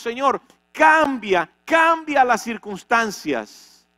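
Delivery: pleading prayer. Retold or imitated. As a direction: cry out for the circumstances to change. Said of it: "Entonces decimos". (súplica fuerte y lenta)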